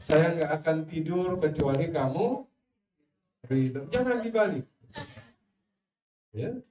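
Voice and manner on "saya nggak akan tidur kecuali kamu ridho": cajole a sulking wife; a hint of a husband sweet-talking; coaxing husband. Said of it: "Suaminya yang ngerayu".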